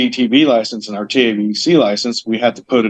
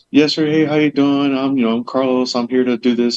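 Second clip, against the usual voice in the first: lightly voiced courteous introduction; a touch of practiced, polite professional patter; polite people skills. Shown as a demonstration. Carlos introducing himself to people on the phone, politely. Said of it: "learned how to talk with people".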